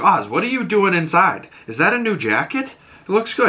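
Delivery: high, chirpy imitation of a woman's greeting; friendly greeting. Sophia greeting Oz at the party, friendly and high. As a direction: imitate her lilting hello, pitched well up.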